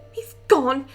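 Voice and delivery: furious outburst. Acted. Voicing Ray's furious outburst.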